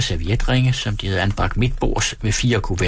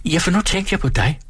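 tender; 8 semitones higher than usual. Acted. Johnny says it's about her.

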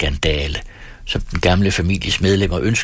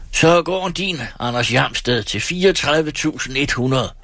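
higher, triumphant proclamation; shouted declaration; 7 semitones higher than usual. A narrator's reading. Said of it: "råbte Erik Skintoft".

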